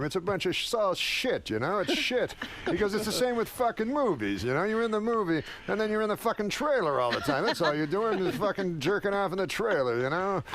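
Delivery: high, exasperated Rodney rant; Rodney lectures the kid on TV; Rodney impression.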